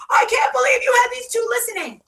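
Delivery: high-pitched mock shriek; freaking out. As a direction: imitate someone screeching in outrage. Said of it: "Jill starts freaking out".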